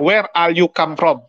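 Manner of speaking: slow "Where are you come from", each word separate in an Indonesian accent; careful learner English with Indonesian accent. Shown as a demonstration. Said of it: "Dia nggak".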